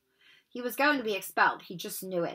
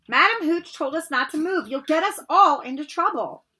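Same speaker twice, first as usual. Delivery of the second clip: raised, higher nagging warning; anxious scolding; 7 semitones higher, 7 dB louder than usual. Acted. Hermione warns Harry about the rules, raised and anxious. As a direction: warn him off, worried and bossy.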